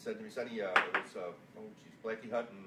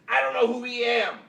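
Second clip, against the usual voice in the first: quoted reply; 8 semitones higher, 11 dB louder than usual. Retold or imitated. Quoting Gary's reply.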